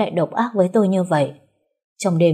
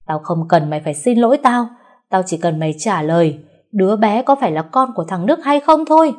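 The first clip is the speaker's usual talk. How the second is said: angry demand; 2 semitones higher, 4 dB louder than usual. Acted. Mother-in-law demanding answer.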